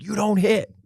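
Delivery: mock-tearful high-pitched wail; imitated crying child. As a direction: plead like a tearful little boy. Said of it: "he's, like, crying".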